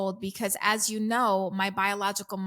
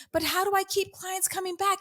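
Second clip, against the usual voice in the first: mocking a pleading client, higher; whiny client question; 9 semitones higher than usual. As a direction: parrot the anxious coach, pitched higher. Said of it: "people say to me".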